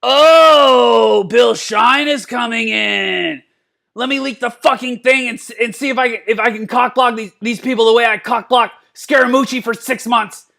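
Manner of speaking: mock rival staffer, bursting out loud then settling into a sneer; a hammed-up paranoid colleague, opening with a shout; mocking impression of a scheming aide, loud start; channeling Priebus. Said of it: "He channeled Priebus as he spoke".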